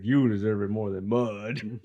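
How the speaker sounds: slow put-on voice. Imitating Short Round.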